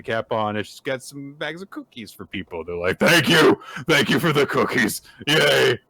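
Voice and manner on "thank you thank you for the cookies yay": high, loud imitation of grateful kids; mock cheering. Imitating people given bags of cookies, gleeful cheer. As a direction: cheer it like an excited little crowd.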